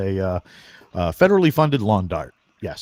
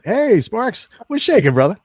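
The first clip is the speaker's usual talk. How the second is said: higher, louder bro greeting called out; hearty greeting; 13 semitones higher, 7 dB louder than usual. Retold or imitated. Greeting army buddy Sparks, loud and high hearty. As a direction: hail an old buddy across the room.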